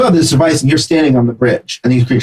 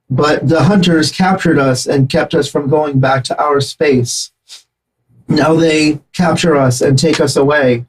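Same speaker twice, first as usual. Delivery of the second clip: chittering insect creature; 3 semitones higher, slower than usual. Acted. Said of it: "And say".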